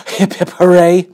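high, loud cheer. A narrator's reading. Narrator cheering the refrain to the listening kids. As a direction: shout it out like a victory chant.

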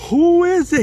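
put-on high, slow, thin old woman asking through the intercom; old lady's voice. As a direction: play a wary elderly lady at the door. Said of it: "Finally, he goes".

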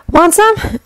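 Winry's voice pitched high, curt; brusque offer. A narrator's reading. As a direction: toss the offer out briskly. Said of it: "she offered brusquely".

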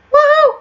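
high, loud cheer of victory; excited woo. Real, not acted. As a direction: whoop in triumph. Cheering as rival dies.

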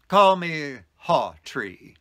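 slow, deliberate and grand; mysterious stranger. Retold or imitated. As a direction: lay out the name slowly, like a secret. Mysterious man names himself.

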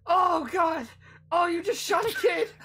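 high, loud pained wail; pained screaming. Acted. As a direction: wail like a kid just shot in the leg. Acted kid screaming in pain.

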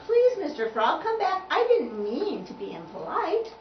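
high, loud pleading; urgent apology. Acted. Tubby calling the frog back, urgent and apologetic. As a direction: plead for him to return.

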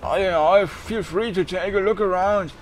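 a hint of a raspy, thinning old voice; raspy shopkeeper voice. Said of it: "It has an unhealthy rasp to it".

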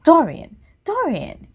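loud, urgent plea of his name; loud pleading cry. Acted. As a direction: call him back in alarm. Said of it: "he cried".

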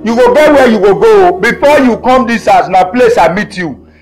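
wife drives her husband out, shouting; angry scolding. Acted. Wife throws husband out of the house, angry and loud.

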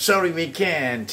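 drawn out drill phrase; slow teacher model; slow model answer. Shown as a demonstration. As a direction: say it slowly and clearly. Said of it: "ให้พูดว่า".

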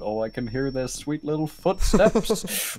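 slow, savoring creep voice; drawn out like a lurking creep; creepy voice. Pretend. Imagining a creep outside a school, slow. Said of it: "Imagine you just sitting outside of school".

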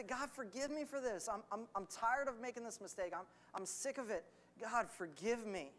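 soft, weary confession; acted repentant plea. Preacher modelling a sinner's prayer to God, quietly pleading.

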